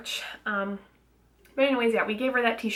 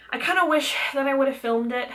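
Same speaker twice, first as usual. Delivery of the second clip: breathless, a little winded; out of breath; 4 semitones higher, 3 dB louder than usual. Real, not acted. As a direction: talk between short breaths. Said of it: "God, I'm out of breath".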